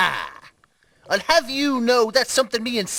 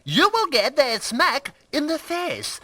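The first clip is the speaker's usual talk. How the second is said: bad French accent. Shown as a demonstration. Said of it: "You're saying it in a French accent".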